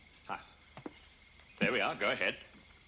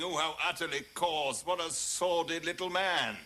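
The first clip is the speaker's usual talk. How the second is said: snobbish mock disgust; 4 semitones higher than usual. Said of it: "you would all have been moaning".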